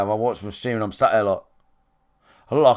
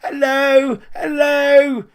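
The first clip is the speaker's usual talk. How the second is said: very high, louder sing-song hellos; mock squeaky greeting; 13 semitones higher, 6 dB louder, much slower than usual. Mocking twee streamers: high, loud squeaky hellos. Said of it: "they're like that".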